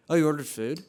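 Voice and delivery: imitating a disapproving tone, rising at the end; judgmental question. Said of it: "but it comes off like".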